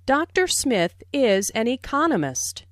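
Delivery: "economist" emphasized as the new information; weight on "economist", second syllable strongest; stress on ECONOMIST. Shown as a demonstration. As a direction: make "eCONomist" the key word of the sentence. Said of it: "Notice the stress on economist".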